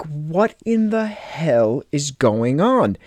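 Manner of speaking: slow, drawn-out disbelief; bewildered. Retold or imitated. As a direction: stretch it out as a baffled retold reaction. Acted reaction to unexplained blood.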